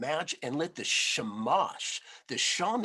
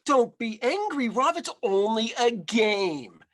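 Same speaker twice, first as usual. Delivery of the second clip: put-on higher, louder coaxing old woman; soothing granny; 7 semitones higher, 5 dB louder than usual. A narrator's reading. Grandmother soothing a bear who lost the game, coaxing. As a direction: coax him out of sulking.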